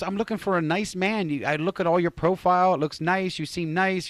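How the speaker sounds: mock online admirer's pitch; imitated woman's flattery.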